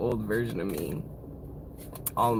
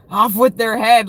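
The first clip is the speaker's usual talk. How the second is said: high and loud, a queen's command; mock royal shout; 9 semitones higher, 11 dB louder than usual. Reader voicing the Queen of Swords to viewers, loud high shout.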